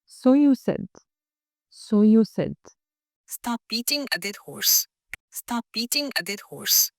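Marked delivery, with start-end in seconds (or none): 3.3-6.9 very slow, soft and clear; slow shadowing model. Shown as a demonstration. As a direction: spell it out slowly for copying. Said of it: "طريقة الشادوينج". (ببطء شديد للتقليد)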